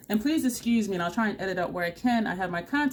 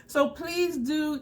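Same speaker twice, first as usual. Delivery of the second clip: laughing; 8 semitones higher, much slower than usual. Real, not acted. Laughing while recommending her.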